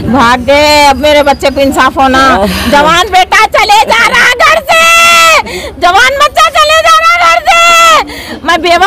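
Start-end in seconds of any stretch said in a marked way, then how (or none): 2.7-8.4 high, slow wailing cry of a mother; real sobbing lament, drawn out and high; grieving wail. Real, not acted. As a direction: cry it out slowly, begging for her lost son. Grieving mother demands justice.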